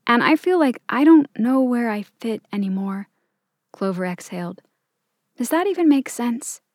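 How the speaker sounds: put-on a nervous teen answering a queen; young girl voice. Clover confides in her dad.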